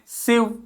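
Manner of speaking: सिव said lightly and softly; light unstressed syllable. Shown as a demonstration. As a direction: keep सिव light, without stress. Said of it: "ये हल्का बोलना है".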